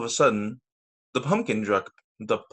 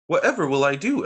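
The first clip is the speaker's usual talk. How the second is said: despairing cry; 4 semitones higher, 4 dB louder, faster than usual. Acted. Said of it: "she cried".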